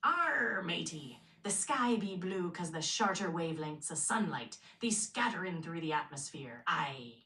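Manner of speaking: hearty pirate growl. Pretend. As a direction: play it like an old sea pirate. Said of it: "can you now sound like a pirate?".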